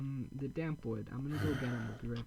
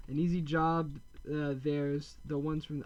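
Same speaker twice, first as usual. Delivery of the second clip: put-on pirate accent; 3 dB louder than usual. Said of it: "I don't know why I gave him that accent".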